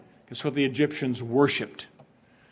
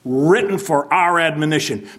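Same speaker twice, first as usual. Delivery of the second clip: scowling Paul; 2 semitones higher, 4 dB louder than usual. Retold or imitated. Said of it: "scowling and shaking his jowls".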